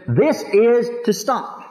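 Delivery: This is to stop, drawn out and firm; a firm slow command from Paul; slow emphatic. Shown as a demonstration. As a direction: spell out the command slowly. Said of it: "could not emphasize it any stronger".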